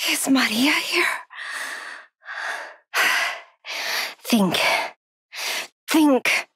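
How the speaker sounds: breathy, anxious self-talk with heavy breaths; hushed fear. Acted. Trapped, hurt woman urges herself to think and stay unheard, hushed fear. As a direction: keep panic down, partly whispering between breaths.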